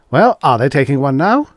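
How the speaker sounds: loud, rushed and rising; stammering with excitement. A narrator's reading. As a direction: blurt it out, flustered. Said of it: "stammering with excitement".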